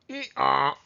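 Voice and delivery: two-note hee-haw; donkey bray. Acted. Teacher showing children the donkey sound, braying.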